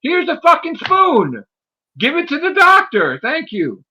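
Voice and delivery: high, hammed-up Doctor impression; mock Doctor. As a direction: squeal the request like a pushy Doctor. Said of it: "And he's like".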